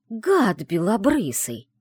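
growling. Acted. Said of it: "прорычала я".

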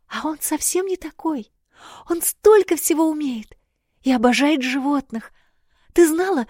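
a princess raving about her crush; high excited girlish gush; gushing young girl. A narrator's reading.

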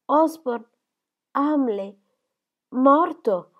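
Cinzia gasps the news out, high and shaken; stunned, frightened disbelief; terrified surprise. A narrator's reading. Cinzia hearing of Osborne's death, terrified and surprised. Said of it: "terrorizzata e sorpresa".

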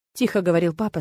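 usual speaking voice

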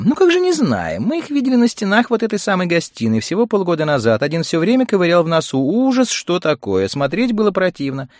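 high, loud protest; indignant chattering woman. Acted. Woman defends her gossip about the candidates, indignantly. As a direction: gush on in loud, high disgust.

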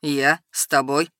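чуть ниже, не выдержав; lightly voiced man. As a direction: Simon losing patience. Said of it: "не выдержал Симон".

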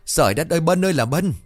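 wailing outcry. Acted. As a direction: wail to the whole house for pity. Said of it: "gào lên".

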